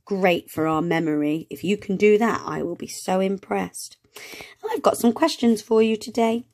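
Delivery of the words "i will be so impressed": softly whispered praise. Real, not acted. Teacher praising children at home, soft whisper. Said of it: "whispered praise".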